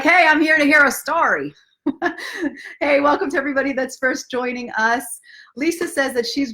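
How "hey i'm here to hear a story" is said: mock-eager listener, higher and louder; hammed-up eager voice; impatient listener. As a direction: play the fan who just wants the story. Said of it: "they're just like".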